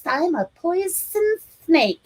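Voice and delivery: slow, high hissing snake play; menacing snake boy. A narrator's reading. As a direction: slither the words like a snake. Child playing snake.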